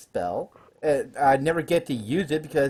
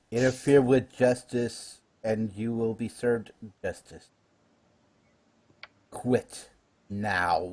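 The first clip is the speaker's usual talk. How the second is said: booming voice; 4 semitones lower, 3 dB quieter, slower than usual. Acted. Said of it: "with a booming voice".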